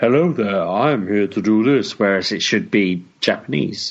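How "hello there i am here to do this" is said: poorly acted, badly read english dubbed-over voice. Mocking how an anime's English dub sounds: imitating an English dub voice. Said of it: "a Japanese person's voice is suddenly like".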